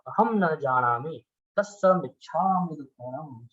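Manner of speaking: measured chant-like prayer; sutra recitation. Acted. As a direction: recite the prayer steadily with a lilting cadence.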